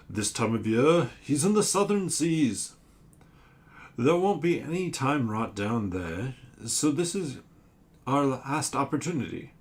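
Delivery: a giant monster pleading its case; sea creature voice. Acted. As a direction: sea monster asking the crew for help.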